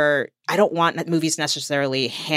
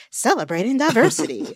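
imitating a BET promo woman, pitched higher; BET announcer voice; 8 semitones higher than usual. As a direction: put on a high, showy TV-network voiceover. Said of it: "in a very B E T voice".

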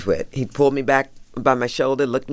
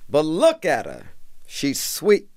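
Obama impression; slower than usual. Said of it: "I'm gonna try to do him".

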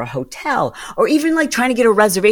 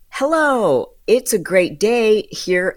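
sing-song call-centre hello, set higher; chirpy agent greeting; 3 semitones higher, slower than usual. Retold or imitated. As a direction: greet like a scripted airline agent. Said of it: "And I'm just gonna make this up".

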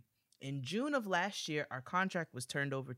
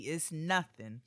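slow and easy; much slower than usual. Real, not acted. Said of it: "She will drive up from D C".

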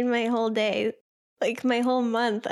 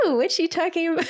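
curious excitement; 7 semitones higher, much faster than usual. Retold or imitated. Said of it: "I'm like".

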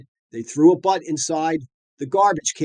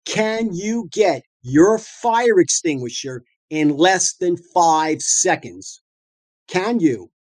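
slow pointed question; slower than usual. Real, not acted. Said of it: "Listen and listen closely".

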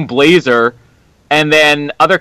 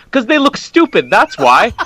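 higher-pitched, exasperated retort; mock exasperation; 8 semitones higher than usual. Husband retells explaining rivalry to wife, mock exasperated. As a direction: retell a fed-up answer, pitched up.

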